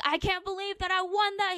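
high, loud imitation of a cocky winner; mock gloating. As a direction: crow over the win, mimicking him.

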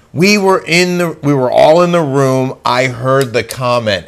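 a light mock of Gina's earnest insistence; hint of Gina swearing she heard it; Gina imitation. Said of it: "you had a great Gene imitation".

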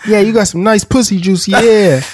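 high, loud bedroom yell through laughter; laughing mock yell. Co-host piling onto the sex joke, laughing mock yell. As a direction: crack up while yelling it in pretend passion.

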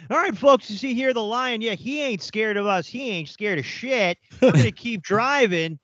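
high, put-on African tour guide accent. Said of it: "That's a good African accent".

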